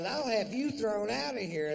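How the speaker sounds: woman threatening to eject him; shrill woman threat. Retold or imitated. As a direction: squeal the threat like her. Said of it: "She goes".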